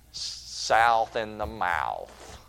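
slow Southern drawl, "South in the mouth". Shown as a demonstration. Preacher jokes about the Southern accent with a slow drawl. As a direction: draw each word out in a Southern accent. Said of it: "good Southern accent".

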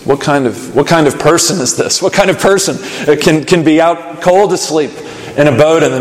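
amazed, a touch of a laugh; befuddled disciples. Acted. Disciples marveling at Jesus calming storm, bewildered. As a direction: wonder aloud in disbelief.

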